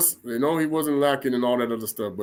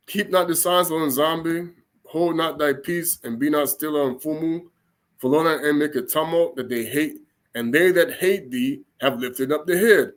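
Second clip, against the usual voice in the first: scripture reading. Real, not acted. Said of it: "I said I was gonna read it".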